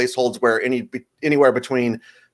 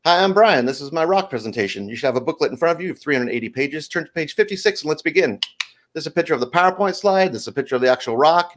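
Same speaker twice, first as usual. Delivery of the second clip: presenting first grader; 3 semitones higher than usual. Acted. Modern first grader giving formal presentation.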